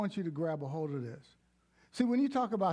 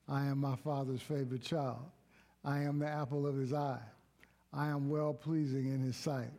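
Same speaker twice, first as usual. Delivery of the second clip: recited confession. Acted.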